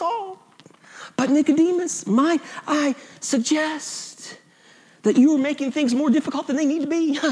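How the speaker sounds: gently condescend in a put-on Southern accent. Evangelical Jesus politely correcting Nicodemus, mock southern accent. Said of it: "Jesus has a southern accent".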